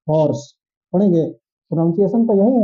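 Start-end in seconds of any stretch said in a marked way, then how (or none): 0.1-0.5 हॉर्स said with an audible h and a rounded aw, falling; demo word. Shown as a demonstration. Teacher models हॉर्स for the class. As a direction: breathe the h clearly in हॉर्स. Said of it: "इसको ऐसे ही पढ़ेंगे ना हम लोग".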